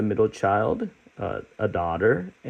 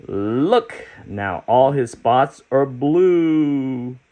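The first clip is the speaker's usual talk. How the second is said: proud of his trick, bursting out; excited creature; 4 semitones higher, slower than usual. Acted. Creature answering the children's challenge, excited and high.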